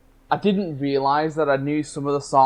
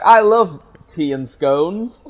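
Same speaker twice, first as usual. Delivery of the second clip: fake British accent; 4 semitones higher, 5 dB louder, slower than usual. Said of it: "American trying to do a British accent".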